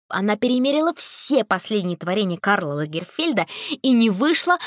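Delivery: plain reading voice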